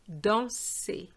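danser slowly as 'don-say'; French é ending on danser, r silent; final A sound. Shown as a demonstration. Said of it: "They have the same pronunciation".

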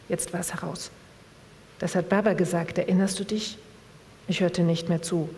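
measured literary reading voice; calm book reading with voiced dialogue; story narration. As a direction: read the novel aloud to the audience. Reads a novel passage aloud.

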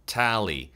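"Tally" with a firmly hit "a"; demonstrated "Tally", stressed open a; strong a vowel. Shown as a demonstration. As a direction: punch the first vowel of "Tally". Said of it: "항상 좀 세게 잡아주세요".

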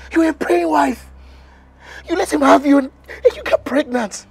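crying accusation. Acted. Husband breaks down over betrayal.

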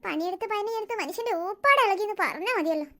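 soft, weary groaning complaint; aching and exhausted. Acted. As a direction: moan about a sore back after endless housework. Worn-out mother moaning about backache. (ക്ഷീണിച്ച് പുറംവേദനയോടെയുള്ള പരാതി)

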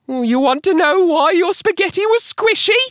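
very high-pitched squeaky wife; Missus Twit. A narrator's reading. Wife about to reveal her trick, high squeak. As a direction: tease it out in a piercing high squeak. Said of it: "Then she said".

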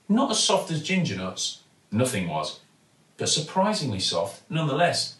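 plain reading voice

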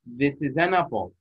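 slow, careful model phrase; model reading. Shown as a demonstration. Teacher modelling a phrase for pupils, slowly. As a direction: read it slowly for them to copy. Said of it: "ألفظها مثل ما أنا ألفظها".

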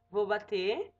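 ordinary talk, nothing marked

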